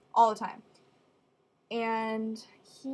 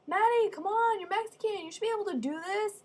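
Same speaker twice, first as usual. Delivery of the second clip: teasing mom; 10 semitones higher than usual. Retold or imitated. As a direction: chide her like mom pushing on.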